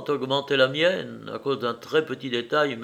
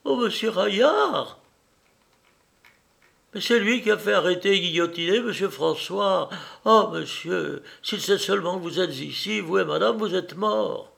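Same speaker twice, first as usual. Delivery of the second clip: put-on high-pitched horrified old housekeeper; cry of distress; 7 semitones higher than usual. A narrator's reading. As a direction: wail the warning in high-pitched alarm. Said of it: "C'est sur ce cri de détresse".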